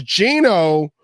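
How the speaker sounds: "Geno" stretched and stressed; Geno in capitals. Retold or imitated. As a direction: say "Geno" as if written in all capitals. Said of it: "in capital letters".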